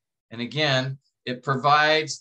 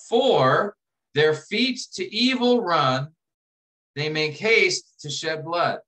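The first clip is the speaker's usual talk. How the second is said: slow reading; 3 dB louder, slower than usual. Shown as a demonstration. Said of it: "So go to the interlinear".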